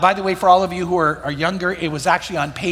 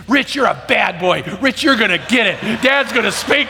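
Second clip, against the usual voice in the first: tattling little brother; 3 semitones higher than usual. Retold or imitated. Little brother calls out his big brother to their father, a mock childish shout. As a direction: shout it like a small boy telling on his brother. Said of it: "I hear Tim say".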